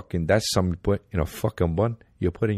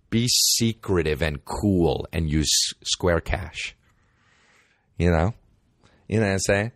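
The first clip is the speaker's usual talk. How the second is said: slow secretive ad read; slower than usual. Acted. Ad read, comic spin.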